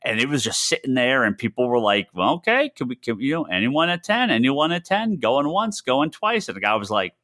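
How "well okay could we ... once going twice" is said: higher-pitched auctioneer calling bids. Retold or imitated.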